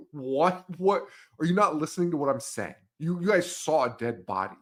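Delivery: mildly exasperated retold cop; mock disbelief at not being heard; upset disbelief. Cop to teens who saw a body, exasperated. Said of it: "so upset, and he's like".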